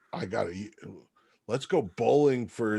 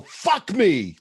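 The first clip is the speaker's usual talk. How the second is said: mild mock yell; 7 semitones higher than usual. Player yelling in character as balls fly at his head, mock yell. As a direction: cry it out in play, half-hearted yell. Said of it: "And I yell".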